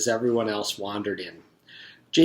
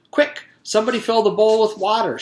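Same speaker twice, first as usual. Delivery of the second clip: higher, louder urgent command; 11 semitones higher, 7 dB louder than usual. Acted. Teacher calling for water after Jason falls, urgent. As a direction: hurry the class to help.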